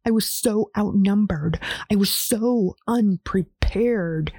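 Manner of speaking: slow broken whisper; pleading whisper. Acted. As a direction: whisper it, begging to be believed. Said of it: "almost pleading with me".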